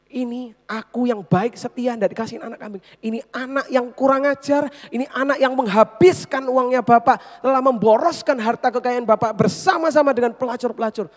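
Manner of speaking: building from sulky to loud; rising, bitter accusation against the brother; angry outburst. Retold or imitated. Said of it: "Dia masih marah". (dari merajuk sampai meledak marah)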